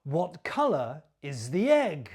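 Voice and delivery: falling tune on "egg"; question intonation. Shown as a demonstration. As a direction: model the question and end down on "egg". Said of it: "listen and copy my intonation".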